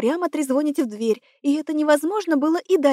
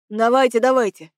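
громче, хмуро, настойчиво; подгони её нахмурившись; хмуро подгоняя; 4 dB louder than usual. A narrator's reading. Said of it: "нахмурился Олег Геннадьевич". (Одинцов хмуро торопит Нину)

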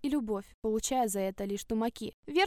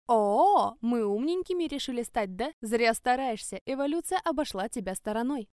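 mocking sneer; 4 dB louder than usual. Stepmother mocks the reading girl.

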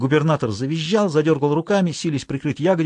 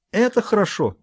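evil laugh; 8 semitones higher than usual. A narrator's reading. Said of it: "зло засмеялась девочка".

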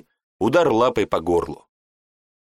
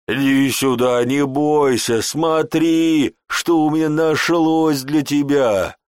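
coaxing; 5 semitones higher, 4 dB louder, slower than usual. Acted. Guard coaxing a little monkey.

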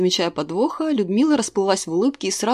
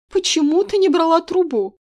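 high, loud shocked cry; 10 semitones higher, 5 dB louder than usual. A narrator's reading. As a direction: gasp it out, hand on heart. Shocked grandma clutching heart. (потрясённо, высоко и громко)

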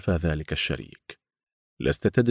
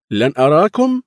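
anxious; 9 semitones higher, 10 dB louder than usual. Acted. Anxious question to gang.

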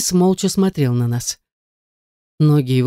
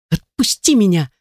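hissed; 5 semitones higher than usual. A narrator's reading. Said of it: "зашипела я".

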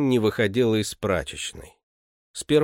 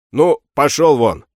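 louder, an impatient dismissal; 3 semitones higher, 8 dB louder than usual. A narrator's reading. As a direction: cut him off and send him out. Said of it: "нетерпеливо перебил его Гаврила". (нетерпеливо, громче)

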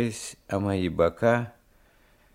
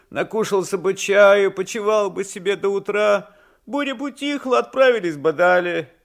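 high, loud, indignant reproach; angry scolding; 10 semitones higher, 7 dB louder than usual. A narrator's reading. Old servant scolds master for pressing on, angry high-pitched nagging. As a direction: nag crossly in a raised pitch. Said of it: "говорил он сердито".

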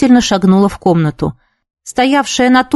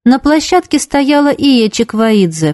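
ordinary delivery

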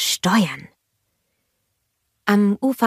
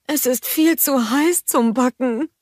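higher, put-on voice for Gerda; Gerda character voice; 7 semitones higher than usual. A narrator's reading. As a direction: play Gerda with her head in the icebox.

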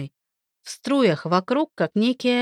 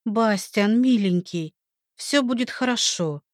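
ordinary delivery, nothing marked

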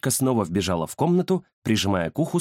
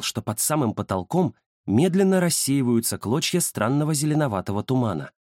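usual speaking voice

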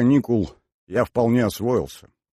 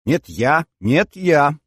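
high, louder insistence, rising on the repeat; competing children's clamour; eager squabble; 7 semitones higher, 6 dB louder, much slower than usual. Acted. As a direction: vie to be the one chosen. Girls vie for the task.

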